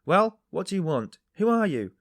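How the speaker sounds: loud, high, angry shout; workman shouting. A narrator's reading. Workman shouting at an intruder at night, loud and high. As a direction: bark it at the stranger. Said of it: "the workman shouted".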